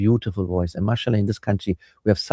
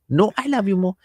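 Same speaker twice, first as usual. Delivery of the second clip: put-on high-pitched child's playful insistence; innocent child insisting; 9 semitones higher than usual. Child outdoing parent's love, high playful insistence. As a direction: pitch it up like an adoring little kid. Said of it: "those masoom".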